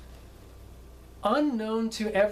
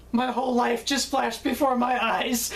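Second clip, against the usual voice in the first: lightly mimicked stunned actor, pitched higher, close to laughing; shaken co-star; 4 semitones higher than usual. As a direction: deliver it as a comic near-death confession. Shaken co-star after the charge, retold.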